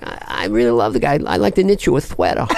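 suddenly tender in Tyson's voice; gentle Tyson impression. Tyson praising the opponent he just beat. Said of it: "he'd be like".

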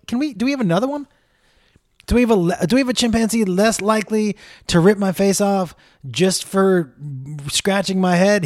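a rattled guy begging for a safer chimp; nervous plea. Retold or imitated. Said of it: "I'm like".

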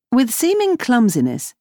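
ordinary delivery, nothing marked

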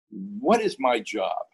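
slow, deliberate quizzing; pointed test question. Retold or imitated. Commissioner quizzes the visiting professor, slow and pointed. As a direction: draw the question out as a challenge.

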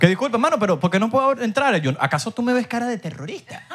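high-pitched, playful objection; mock indignant protest. Joker protesting at being refused entry, mock indignant.

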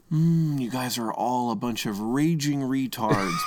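slow, condescending host voice; smug Alex impression. Cohost imitating a smug quiz host, slow and condescending. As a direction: talk down to the contestants, slowly. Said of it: "and he'll just say".

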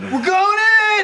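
high, loud breach callout; tactical callout. Pretend. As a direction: shout it like an operator breaching. Game callout voice.

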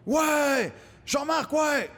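high, drawn mock cheers; cheering crowd. Audience hails Jean-Marc the puppet, high excited cheering. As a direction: imitate fans erupting with joy.

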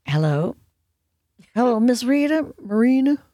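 put-on half-hearted take on Colonel Parker's accent; imitating Colonel Parker's accent. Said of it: "I don't do the accent well".

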